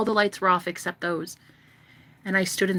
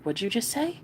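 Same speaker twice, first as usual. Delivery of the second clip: angry; 5 semitones higher, 4 dB quieter than usual. Retold or imitated. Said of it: "he was so fucking pissed".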